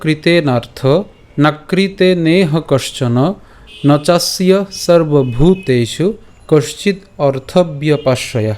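slow, measured Sanskrit shloka recitation; verse recitation. Shown as a demonstration. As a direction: recite each quarter slowly, pausing between them. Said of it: "আজকের শ্লোকটি হল".

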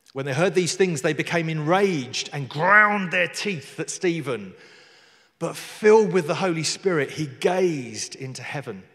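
emphatic, weighty narration with surges of volume; dramatic scripture reading. A narrator's reading. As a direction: punch the key verbs as you read.

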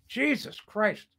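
ordinary talk, nothing marked

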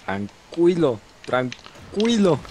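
calming. Real, not acted. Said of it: "Cómo va a estar tranquilo".

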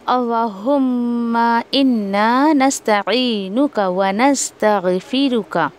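slow, measured Quranic recitation. Shown as a demonstration. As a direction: draw each word out with tajweed. Recites dua slowly.

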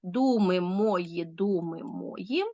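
slow, syllable-by-syllable «Думи мої, думи мої»; «Думи мої, думи мої» slowly divided syllable by syllable; split into syllables. Shown as a demonstration. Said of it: "повинні поділити рядки на склади".

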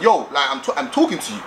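mock assertive bass voice; firm demo of a bass voice. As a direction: put some bass in it, assertively. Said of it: "she's gonna hear that bass voice".

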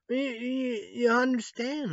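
shouting you understand; emphatic demand. Real, not acted. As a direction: push the question hard at them. Speaker presses listener, emphatic outburst.

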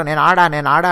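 "ఆడా" with a long open ఆ ending; imitated slang. Quoting his slang in the argument, "ఆడా" ending on long ఆ. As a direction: quote "నేను ఆడా" twice, stretching the last vowel of "ఆడా". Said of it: "అతను తన స్లాంగ్లో".

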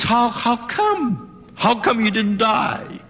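retold astonishment. Preacher voices a man asking his surviving friend, astonished. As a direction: act out stunned disbelief, stretching the first words.

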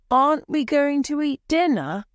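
high, loud and fast snap; angry. A narrator's reading. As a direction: demand it sharply, annoyed. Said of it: "asked Pauline angrily".

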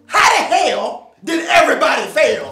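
angry shout at the class; loud. Acted. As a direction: yell the question. Teacher yelling at the class.

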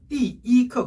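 "이" high and level between "띠" and "크"; first-tone 이 as ordinal. Shown as a demonstration. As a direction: hold "이" on a high flat note. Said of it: "일 성으로 발음이 돼요".

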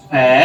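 ফ্যা as a lone syllable; isolated middle syllable ফ্যা; broken into syllables. Shown as a demonstration. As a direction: sound out ফ্যা by itself. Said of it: "এভাবে লিখি".

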